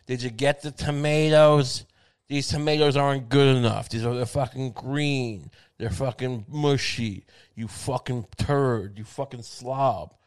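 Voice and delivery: lightly voiced nagging wife, drawn-out insults; mock a wife's slow, scornful complaint; nagging tomato wife. Tomato wife berates husband over bad tomatoes, lightly acted scolding. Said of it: "This is a tomato wife".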